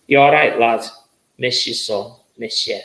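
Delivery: lightly voiced man from the spirit world; spirit's voice. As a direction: pass on his words in a hint of his voice. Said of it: "And that's his voice".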